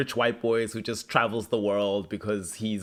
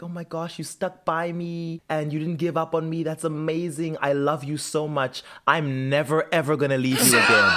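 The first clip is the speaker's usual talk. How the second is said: lightly mock-gushing, a little higher; imitated gushing gratitude; 3 semitones higher than usual. Recapping the revived girlfriend thanking him, mock gushing. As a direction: voice a grateful girlfriend's gush, building at the end. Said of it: "She's incredibly grateful to him".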